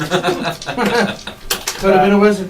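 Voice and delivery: lightly voiced, slow, tutting relatives; a hint of disapproving family, slow and sighing. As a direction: drawl it slowly like a disappointed aunt. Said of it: "your disapproving relatives, all of them behind you, just going".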